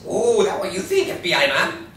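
put-on loud, heavy Asian accent; thick Asian accent. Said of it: "speaks with a loud, thick Asian accent".

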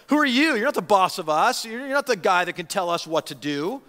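loud, high, indignant challenge; angry sarcasm. Retold or imitated. Priests confronting Jesus, angry and sarcastic. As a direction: snap back like offended leaders who feel upstaged. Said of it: "You hear the sarcasm, the anger".

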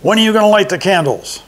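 high goblin voice; sly high goblin prodding; horned goblin nudging Herschel to light candles; third goblin voice. A narrator's reading.

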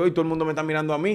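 quick, flustered self-talk; embarrassed rush. Retold or imitated. Remembering his shame with everyone watching, quick flustered aside.

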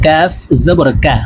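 "কাফ জবর কা" with k slightly forward of the tongue root; forward kaf sound. Shown as a demonstration. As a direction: spell out "কাফ জবর কা" in a measured chant, k a little forward. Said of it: "জিহ্বার গোড়া থেকে একটু আগে বাড়াইয়া". ("কাফ জবর কা" জিহ্বার গোড়ার একটু আগে থেকে কাফের উচ্চারণে)

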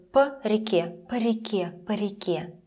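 "По реке" with a very short "puh"; even shorter po. Shown as a demonstration. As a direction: barely sound the vowel of по in "По реке". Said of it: "sounds even shorter".

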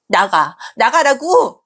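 나가라고 as a high, loud furious shout; angry shout. Acted. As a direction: yell 나가라고 at her. Daughter repeats order, escalating.

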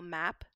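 "map" with the standard untensed short A. Shown as a demonstration. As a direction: say "map" with a plain, lax cat vowel. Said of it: "you'd get that standard ah sound".

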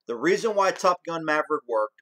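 slip into Irish accent. Real, not acted. Vlogger on Top Gun slips into Irish accent. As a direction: let an Irish accent sneak in unbidden. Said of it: "I don't know why I had a little accent there".

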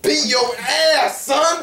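slow threat in mock Black American accent; put-on Black American accent. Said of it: "He's black now".

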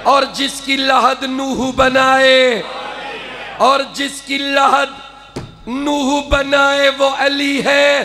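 drawn-out declaimed verse; fervent recitation. Acted. Poet repeating the couplet for applause, fervent. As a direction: stretch the lines for the crowd.

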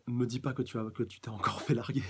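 Bulma qui se moque un peu, voix légèrement jouée; taquine-le sur sa rupture, à peine joué; taquinerie de Bulma. Acted. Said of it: "lui demande Bulma". (Bulma moqueuse, à peine jouée)

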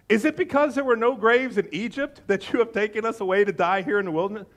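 accusing sarcastic question. Acted. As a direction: lay on a touch of sarcasm. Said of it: "the sarcasm right there is breathtaking".

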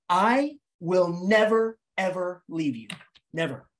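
spaced-out, final "never"; emphatic vow. Acted. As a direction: lean hard on "never", pausing before the last. Bird's imagined solemn vow.

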